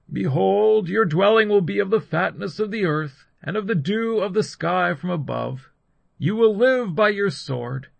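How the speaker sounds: high, loud declamation; solemn pronouncement. A narrator's reading. Isaac answering his weeping son, loud solemn pronouncement.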